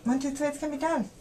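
soothing. Real, not acted. Mom counting child through a needle stick, soothing. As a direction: coax gently through a scary moment.

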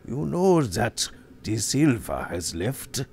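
gently. Acted. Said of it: "He said gently".

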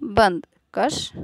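बंद said very slowly with a clear nasal n; slow word drill. Shown as a demonstration. Teacher reading बंद and कश very slowly. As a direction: draw out बंद, then कश. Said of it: "फिर यहाँ बद है".

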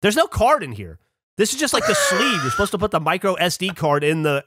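mock patient friend's voice; Millie's voice. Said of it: "she goes".

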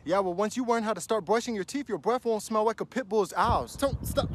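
ordinary talk, nothing marked

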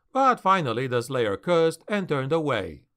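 usual speaking voice

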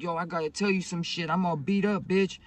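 loud, high retold complaint; imitated yelling woman. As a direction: act out a beaten-up friend yelling her grievance. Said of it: "She's over here yelling and shit".

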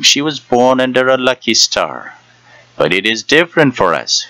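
a hint of a wheedling old woman; coaxing old crone, lightly voiced; old fortune teller.

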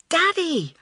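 high, loud sudden alarm; horrified realisation. A narrator's reading. Girl suddenly remembers her waiting father, horrified. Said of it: "realised Elizabeth in horror".

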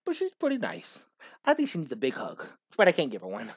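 a gruff guard captain turned confiding; Undyne telling a story. Acted. Streamer reading Undyne's backstory to the player, softly.

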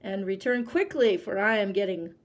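a hint of a threat; warning. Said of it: "the tiger warned him".

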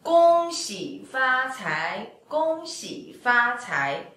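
slow, drawn-out "Gong xi fa cai" with tones; New Year greeting. Shown as a demonstration. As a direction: say "Gong xi fa cai" slowly as a festive wish. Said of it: "Chinese people saying to each other".

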